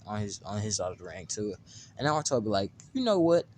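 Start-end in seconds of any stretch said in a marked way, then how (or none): 2.9-3.4 higher, louder acted outburst; imitated sudden decision. Naruto decides he doesn't need his summons, announcing it abruptly. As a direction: pitch it up loudly, acting out a change of mind.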